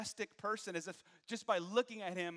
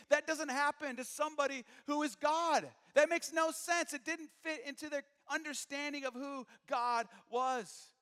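incredulous; 9 semitones higher, 11 dB louder than usual. Retold or imitated. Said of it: "the Jews could not fathom".

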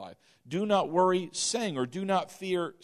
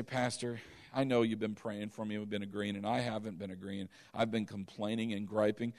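quiet confession; 8 semitones lower, 8 dB quieter than usual. Retold or imitated. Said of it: "just say".

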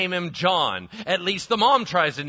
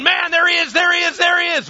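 high, loud, thrilled cry of recognition; excited baby John; 11 semitones higher, 7 dB louder, faster than usual. Acted. Unborn John wiggling as the Lord arrives, excited cry. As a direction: unborn John spotting the Lord, bursting with joy.

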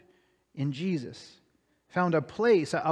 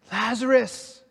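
calling out; 5 semitones higher, slower than usual. Acted. Jesus calls Lazarus from grave.

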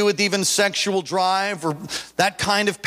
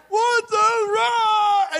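startled yell; 14 semitones higher, much slower than usual. Retold or imitated. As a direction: shriek mid-attack. Attacker swings pickaxe.

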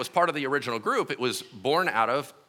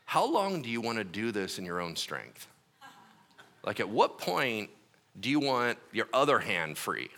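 gentle divine whisper; 6 semitones lower, 6 dB quieter than usual. Retold or imitated. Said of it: "the Lord whispered to me".

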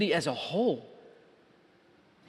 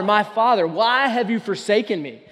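crying out to God; 3 semitones higher, 5 dB louder than usual. Retold or imitated. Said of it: "cries out to God the Father".

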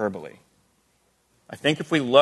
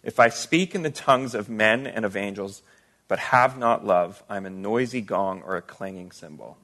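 dramatic scripture reading. Acted. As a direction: read the passage with weight, hushing the final verdicts. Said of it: "it's quite dramatic. Listen to it again".

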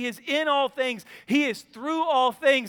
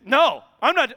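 put-on defiant kid; 3 semitones higher, 8 dB louder than usual. Son refusing to go.

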